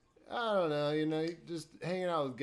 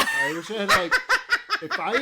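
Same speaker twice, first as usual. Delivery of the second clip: laughing nervously; 11 dB louder than usual. Real, not acted. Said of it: "Do your voice".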